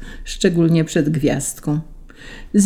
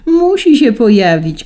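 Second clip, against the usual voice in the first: high, loud insistence; children shouting; 7 semitones higher, 6 dB louder than usual. A narrator's reading. Children insisting to the cats, high shout. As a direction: cry out high, sliding down. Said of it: "krzyczały dzieci".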